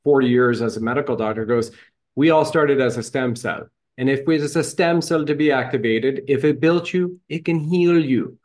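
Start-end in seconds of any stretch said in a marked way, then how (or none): 2.1-8.4 a light imitation of a Jamaican accent, rising higher. Host quoting a Jamaican doctor to guests, light Jamaican accent. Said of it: "as she says in her lovely Jamaican accent".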